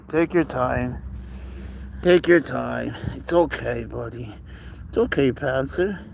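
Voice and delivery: calm him down, patiently; soothing a scared pet. Real, not acted. Calming scared cat.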